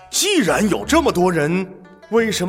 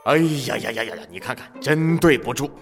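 gloating king; 2 semitones higher than usual. Acted. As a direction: gloat in mock dismay. King gloats over the thief.

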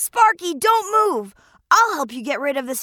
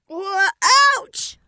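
yelp of pain; 2 semitones higher than usual. Acted. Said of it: "cried out in pain".

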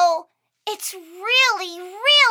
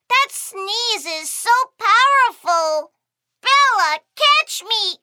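ordinary delivery

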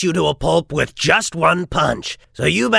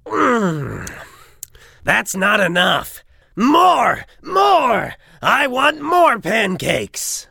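greedy shouting; 6 semitones higher, slower than usual. Acted. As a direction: demand more like a greedy brute.

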